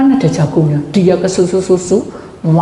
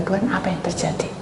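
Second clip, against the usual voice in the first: breathy whispered plea to God; whispered prayer; 9 dB quieter, faster than usual. Shown as a demonstration. Preacher whispers a silent prayer to God. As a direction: pray it under your breath.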